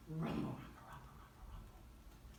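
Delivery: low rumbling murmur, fading to unvoiced; imitated crowd rumble. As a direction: imitate a distant rumble, dying away. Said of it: "And you could hear".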